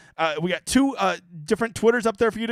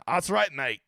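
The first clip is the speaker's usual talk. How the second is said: bad Australian accent; 2 semitones lower, slower than usual. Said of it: "I don't have a good Australian".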